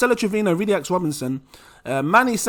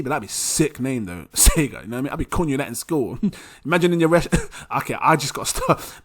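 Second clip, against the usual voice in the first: ordinary talk, nothing marked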